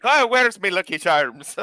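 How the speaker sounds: slow mock Irish accent. Friend mocks Enzo in a slow Irish accent. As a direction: ham it up as a stage Irishman. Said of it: "Fucking Enzo's like".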